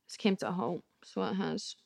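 a quiet mock-sad echo of "It's came to a halt."; rueful mutter. Shown as a demonstration. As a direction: repeat it to yourself, deflated.

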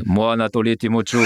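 put-on Anatoly Timochouk with a Russian accent, rolled and heavy; Russian accent in French. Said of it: "je veux prendre l'accent russe".

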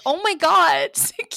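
mock gasp. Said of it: "and I'm like".

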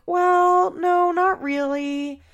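high, drawn-out hedging; evasive child imitation. Vlogger mimics Aubrey answering her mother, evasive and high. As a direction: stretch it out high, reluctant to answer.

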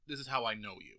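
hiccuping between words; with hiccups. Real, not acted. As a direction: talk through the hiccups. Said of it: "Sorry, I got the hiccups here".

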